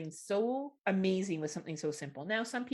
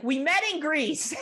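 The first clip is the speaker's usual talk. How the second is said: mock girlfriend retort; 9 semitones higher, 7 dB louder, slower than usual. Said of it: "She's like".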